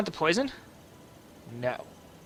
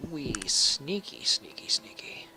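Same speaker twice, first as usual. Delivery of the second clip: fading to an unvoiced whisper; sneaking past guards in a whisper; playful whisper; 3 semitones lower, 8 dB quieter than usual. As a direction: tiptoe the words away. Sneaking in game.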